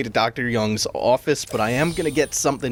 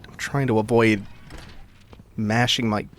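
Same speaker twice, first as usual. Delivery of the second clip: numb mouth after root canal; talking through a numb mouth; numb from the dentist. Real, not acted. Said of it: "my mouth is still numb, so I feel like I'm talking a bit weird".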